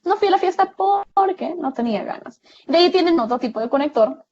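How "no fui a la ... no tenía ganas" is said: fast, higher run-through of the sentence; quick example read. Shown as a demonstration. Teacher quickly repeating the example sentence for the students. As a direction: rattle off the sentence quickly in one breath. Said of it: "Ese porque es un conector".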